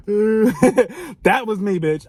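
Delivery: high, very slow, drawn-out put-on voice; meme character voice. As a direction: stretch it out like a cartoon meme. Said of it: "and he's like".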